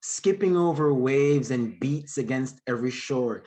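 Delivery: rhythmic, lilting poetry recital; poem reading. Acted. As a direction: read it like spoken word. Reads his poem aloud.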